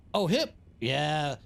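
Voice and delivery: ordinary talk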